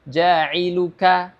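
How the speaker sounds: ja'iluka slow, k like an ordinary K; slow model of ja'iluka; normal k. Shown as a demonstration. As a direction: say ja'iluka with a plain light k. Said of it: "mengucapkan huruf K pada umumnya".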